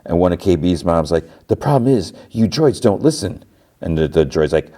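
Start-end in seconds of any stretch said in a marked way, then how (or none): 1.5-3.4 tag. Retold or imitated. Mom complains to security droid.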